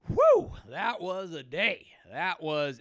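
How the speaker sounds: loud, drawn-out show of relief; mock relieved exhale. Faker leaving the bathroom after a pretend procedure, exaggerated relief.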